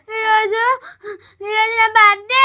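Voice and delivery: ఏడుపు మధ్య ఆగి ఆగి చెప్పడం; ఏడుస్తూ. Acted. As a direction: say it through acted sobs. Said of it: "మళ్ళీ ఎందుకు ఏడుస్తున్నావు". (ఏడుపు గొంతుతో)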